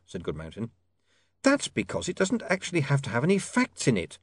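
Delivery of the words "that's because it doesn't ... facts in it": snapped. A narrator's reading. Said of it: "she snapped".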